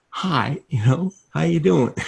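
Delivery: high-pitched, mock-stiff on-camera hello; tight, nervous greeting. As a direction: greet the viewers as if wound tight. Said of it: "tight as can be".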